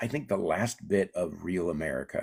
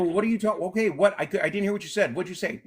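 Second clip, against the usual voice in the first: confused husband; 10 semitones higher than usual. Retold or imitated. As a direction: fumble for what she said.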